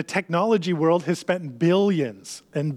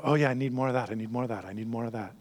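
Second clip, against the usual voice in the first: mock craving voice; 4 semitones lower, 5 dB quieter, faster than usual. Imitating craving user's inner voice.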